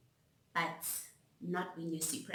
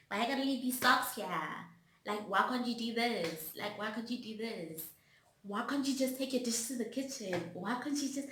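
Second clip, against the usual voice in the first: nagging complaint; 3 semitones higher than usual. Retold or imitated. To her partner about socks and dishes, exasperated nagging. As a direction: rattle off the complaints at your partner. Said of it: "I was like".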